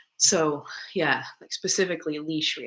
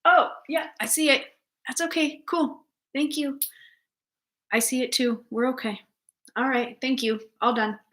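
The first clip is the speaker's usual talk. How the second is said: reassuring owner voice; 8 semitones higher than usual. Retold or imitated. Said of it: "their person doesn't say".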